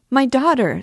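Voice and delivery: desperate scream. A narrator's reading. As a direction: shriek it at full force. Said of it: "screamed the terrified mother".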